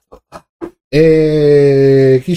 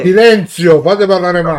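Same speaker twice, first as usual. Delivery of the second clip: raised voice; 4 semitones higher than usual. Acted. Calling for silence for Max.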